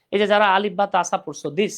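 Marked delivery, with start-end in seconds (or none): 1.5-1.7 দিস begun with tongue tip on upper teeth. Shown as a demonstration. Teacher explaining tongue placement, careful pronunciation demo. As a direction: say দিস as "this", dental start, s ending. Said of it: "জিহ্বার আগা উপরে দাঁতের আগার সাথে".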